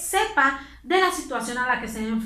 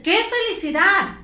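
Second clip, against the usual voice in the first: joyful exclamation; 5 semitones higher than usual. Shown as a demonstration. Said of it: "es de euforia".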